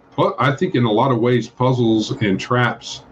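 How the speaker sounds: normal talking voice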